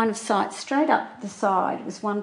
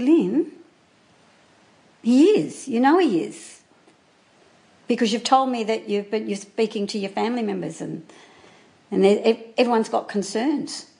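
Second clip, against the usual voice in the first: insistent retold plea; 3 semitones higher than usual. Insisting to friend he's cheating.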